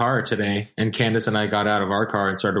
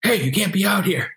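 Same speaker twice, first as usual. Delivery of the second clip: mock park busybody; 8 semitones higher than usual. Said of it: "and he's like".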